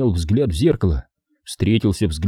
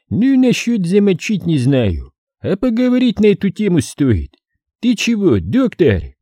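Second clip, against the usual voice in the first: menacing menace; 10 semitones higher than usual. A narrator's reading. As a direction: lean into the threat. Сулейман угрожает. (угрожающе)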